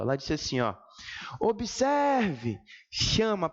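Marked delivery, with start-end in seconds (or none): 1.4-1.9 OBSERVE called out high, stretched on SER; calling out the word. Shown as a demonstration. Teacher calling the word to find its stressed syllable, OBSERVE called out high. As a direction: call OBSERVE as if summoning it, lengthening the stressed SER. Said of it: "grita pela palavra".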